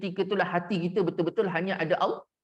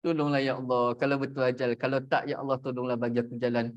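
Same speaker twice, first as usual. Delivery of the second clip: low-pitched, even inner plea; retold pleading prayer; 6 semitones lower than usual. Counsellor begging God for a way out, retold low pleading prayer. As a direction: recite a helpless prayer down low. Retells desperate private prayer.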